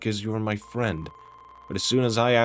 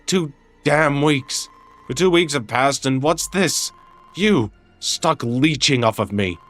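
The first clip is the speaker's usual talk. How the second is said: angry accusation; 4 semitones higher than usual. Acted. Angry roommate quarrel.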